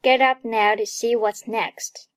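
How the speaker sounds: "get up now to see what's next" with a quick, light "to"; linked, reduced reading. Shown as a demonstration. Teacher models 读起来就是, linked with a very light "to". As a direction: link "get up", barely touch "to". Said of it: "to see的to发得特别快又很轻".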